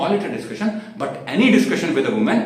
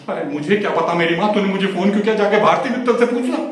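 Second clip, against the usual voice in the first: rising higher and louder in irritation; exasperated retort; 4 semitones higher, 4 dB louder than usual. Acted. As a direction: throw the question back, fed up. Exasperated retort to girlfriend on phone. (झुंझलाकर दिया गया ऊँचा जवाब)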